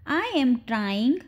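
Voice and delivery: slow, measured demonstration; slow down for learners to copy; slow model repeat. Shown as a demonstration. Teacher repeats the short sentence for learners, slowly.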